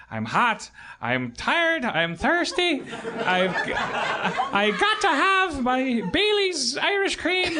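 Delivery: laughing so hard the joke's line goes high and slow; laughing through it. Retold or imitated. Retelling joke, Irish guy's line.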